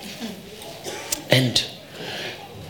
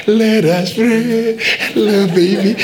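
mocking nice pastor; slower than usual. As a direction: drawl it out like a gentle pastor. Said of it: "Nice, nice pastors".

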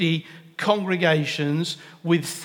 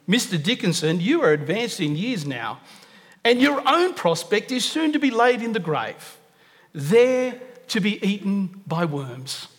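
cheeky tone. Retold or imitated. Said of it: "I'll put my tone on it".

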